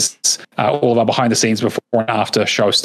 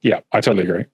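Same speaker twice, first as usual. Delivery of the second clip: glitchy robotic mic voice; faster than usual. Real, not acted. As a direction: sounds like a broken robot mic. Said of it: "You're doing robot voice".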